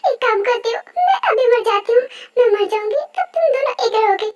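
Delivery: distraught outburst. Acted. Rose threatens to end her life before Yoongi, distraught. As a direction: cry out in acted despair.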